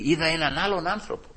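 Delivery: softly told, with hushed wonder; quiet testimony. Real, not acted. Preacher reports the coworker changed, quiet testimony. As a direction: share it softly with the congregation. First take of repeated testimony.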